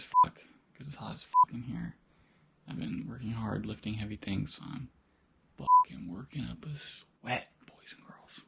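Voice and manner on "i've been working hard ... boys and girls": quiet at night. Real, not acted. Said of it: "I'm whispering because it's very late".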